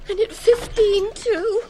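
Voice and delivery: excited exclamation. Acted.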